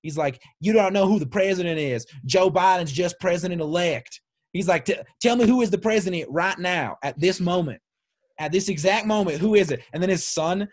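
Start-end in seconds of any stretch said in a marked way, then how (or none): 0.6-4.2 imitating a yelling dad, pitched up a little; retold yell. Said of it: "like, he starts yelling". 4.8-9.8 imitating a yelling dad, pitched up a little; mild mock yell, higher than normal; retold yell. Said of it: "like, he starts yelling".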